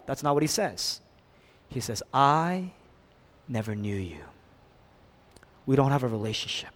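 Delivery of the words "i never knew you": low, soft verdict with a pause; grave rejection. Acted. Jesus answering false worshippers, quiet and final. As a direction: let it drop low and quiet.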